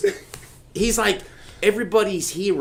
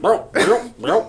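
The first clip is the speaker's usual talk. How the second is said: tag; 2 semitones higher than usual. Retold or imitated. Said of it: "His stomach's like".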